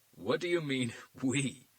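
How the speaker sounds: sneering, a chuckle leaking through; suppressed sarcastic chuckle. A narrator's reading. Agent Williams mocking Garcia, holding back a chuckle. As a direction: laugh at the cop's presumption. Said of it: "trying to suppress a sarcastic chuckle".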